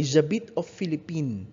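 Philippines said "filipin" with no s; no final s. Shown as a demonstration. Teacher models Philippines without the final s. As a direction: drop the s of Philippines, no liaison after aux. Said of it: "pronounce it as Philippine without an S".

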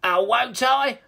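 high, loud taunting troll; sneering troll. A narrator's reading. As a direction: throw it back as a cocky villain. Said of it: "sneered Toilet Troll".

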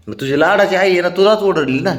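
teasing pet talk. Real, not acted. Man teasing the pet that its beloved mom scolded it, playful teasing.

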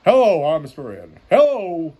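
lightly done cheap horse impression; Mister Ed. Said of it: "cheap version of Mister Ed".

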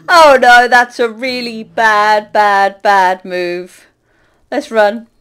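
loud, slow groan of dismay. Real, not acted. Realising she angered the pigmen, loud slow dismay. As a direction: drag out the bad move in horror. Realises her bad move.

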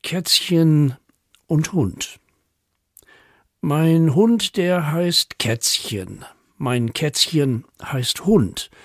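measured, playful verse recital; poem for children. A narrator's reading. Poet reads children a pet poem, playful recital. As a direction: lean on each rhyme as you read.

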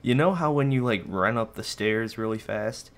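breathless after running upstairs; out of breath. Real, not acted. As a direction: talk while catching your breath. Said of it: "I'm a bit out of breath".

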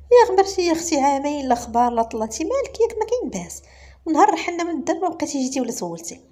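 high, loud delighted welcome; overjoyed reunion cry; excited greeting. Acted. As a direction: greet an old friend with a burst of joy. Friend greets long-lost friend.

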